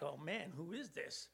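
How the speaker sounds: very soft, acted amazement; hushed awe. Disciples after seeing the storm stop, hushed awe. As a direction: drop right down as if stunned.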